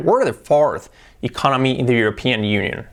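"We're" run together as one word; contracted form. Shown as a demonstration. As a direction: model the sentence with "We're" contracted. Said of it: "Y vamos a encontrar".

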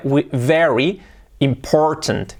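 "very important" slowly, V held; teacher's slow model of "very important"; clear English V. Shown as a demonstration. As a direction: sound "very" with a firm V, not B. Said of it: "la V, letra semiclave".

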